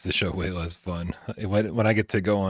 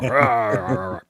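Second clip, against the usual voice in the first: mock pirate growl; 2 semitones higher, 4 dB louder than usual. Host jokes after slipping into pirate talk, pirate growl. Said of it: "talking like a pirate".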